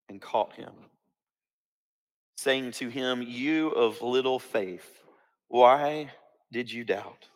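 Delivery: solemn storytelling from scripture; scripture reading. A narrator's reading. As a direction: read the passage out deliberately, phrase by phrase.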